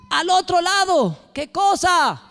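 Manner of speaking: high, slow disbelieving question; incredulous Pedro. Acted. Pedro in the boat questions the order from the shore, high and disbelieving. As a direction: stretch it out, can't believe the order.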